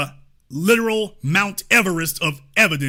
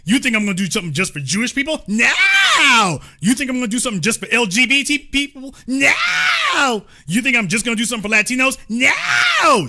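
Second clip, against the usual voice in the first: mock Kamala tirade; 2 semitones higher than usual. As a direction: parody her barking "No!" at each group. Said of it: "She literally says something".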